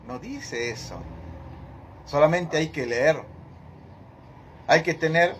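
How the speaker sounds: normal talking voice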